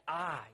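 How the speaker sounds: "I" stressed as a word on its own; emphatic I. Shown as a demonstration. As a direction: show the emphasis on "I". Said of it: "it's very emphatic".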